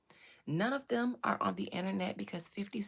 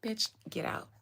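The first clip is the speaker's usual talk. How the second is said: breathy disgusted whisper; 3 semitones lower, 4 dB quieter than usual. Real, not acted. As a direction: hiss it under the breath. Disgusted at meme.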